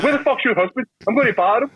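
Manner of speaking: high, raging threat; mocking furious demand. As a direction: threaten in a rage. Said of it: "I was like".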